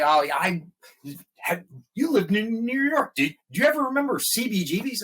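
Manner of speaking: high-pitched eager quote of other people; imitating excited people. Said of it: "when they say".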